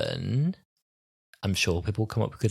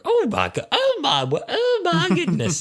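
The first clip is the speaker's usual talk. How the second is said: squeaky, high, laughing panic; a high-pitched, flustered yelp; flustered Doctor; 5 dB louder than usual. Retold or imitated. Doctor flustered by River's flirting.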